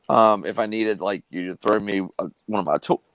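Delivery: talking through hiccups; hiccuping mid-sentence. Real, not acted. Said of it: "got the hiccups now".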